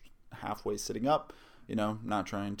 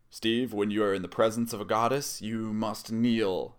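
imperious command; 2 semitones higher, 5 dB louder than usual. Retold or imitated. Retelling Susan ordering Steve to kneel, lightly imperious. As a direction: imitate a grand order, stretching the last words. Retold goddess commands a man.

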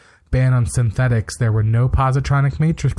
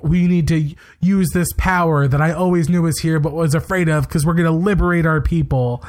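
higher-pitched mock drama-student delivery; amateur stage acting; 5 semitones higher than usual. Mocking Hugh's bad acting in the liberation speech, amateur stage acting. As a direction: lightly imitate an overearnest first-year acting student. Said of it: "like you are in a play in your first year of acting college".

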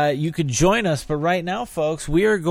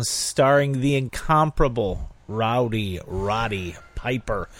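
movie trailer voice; 3 semitones lower than usual. Acted. Trailer-style star billing.

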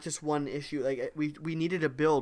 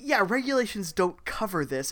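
mock-helpful rulebook sarcasm, lightly done; wonderfully snarky; 4 semitones higher than usual. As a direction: imitate a snarky officer, slightly raised pitch. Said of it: "in this wonderfully snarky way, like".

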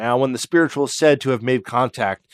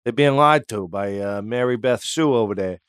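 put-on Brooklyn accent; 2 semitones lower than usual. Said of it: "it was just like".

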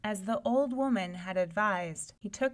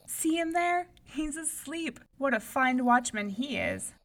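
mocking princess; 6 semitones higher, 4 dB louder than usual. Eldest princess mocks.

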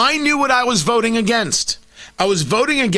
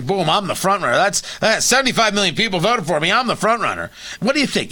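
Donald Trump impression; faster than usual. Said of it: "he's gonna say it as".

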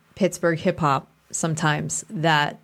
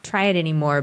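high, quick mock whine of defeat; mock whiny giving up; 4 semitones higher, much faster than usual. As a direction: toss it off like a dramatic quitter. Mock exasperated quitter quote.

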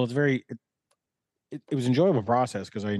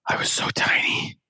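whisper. Real, not acted. Bodybuilding low weight recalled.

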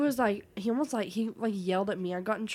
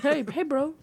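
bro voice; 4 semitones higher, 4 dB louder than usual. Retold or imitated. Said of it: "bro voice".

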